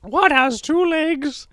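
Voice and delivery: lightly voiced teacher's riddle; mock teacher riddle. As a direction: pose the riddle slowly, teasing.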